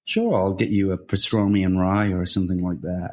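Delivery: lightly put-on American accent; understated mock American. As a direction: have a go at a casual American accent. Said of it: "That's a good American accent".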